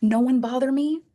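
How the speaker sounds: high, self-important warning; mock lair-dweller voice; bossy announcement. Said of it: "women are in my program, like".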